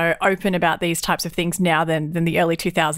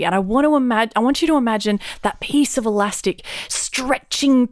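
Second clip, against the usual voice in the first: mock instructor; 3 semitones higher than usual. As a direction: lightly play the earnest teacher. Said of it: "At one point she said".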